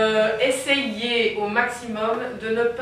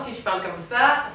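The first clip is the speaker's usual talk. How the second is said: talking with lips spread in a smile; smiling voice. Shown as a demonstration. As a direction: speak through a wide smile. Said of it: "ça va s'entendre".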